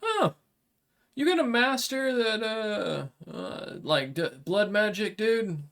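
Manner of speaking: a blunt samurai making a deal; dragonkin warrior. Acted. GM voices Kuroshiba.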